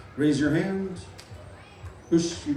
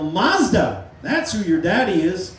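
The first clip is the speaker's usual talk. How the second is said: mild demo yell; 4 dB louder, slower than usual. Shown as a demonstration. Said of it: "slap your bottom and yell".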